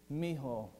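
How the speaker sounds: low-key, gentle term of endearment; tender affection. Acted. Jesus speaking fondly to one who needs him, tender affection. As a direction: say it gently, close and fond. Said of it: "he's conveying affection to Peter".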